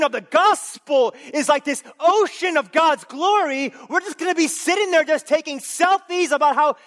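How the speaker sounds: high, loud fervent preaching; full-force preaching. Acted. Preacher urging the church toward God's glory, fervent. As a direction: preach it out to the back row.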